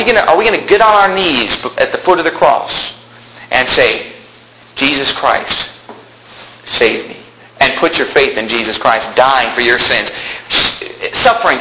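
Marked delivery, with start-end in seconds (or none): 4.7-7.2 hushed prayer. Pretend. Sinner praying at the cross.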